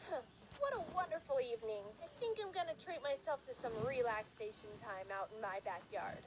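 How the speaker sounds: lightly voiced contented single mom; a hint of a sighing lady; lady across lake. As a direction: muse to yourself as a tired mother. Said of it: "point of view of this lady".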